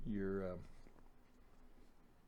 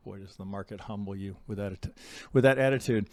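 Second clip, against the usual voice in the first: normal talking voice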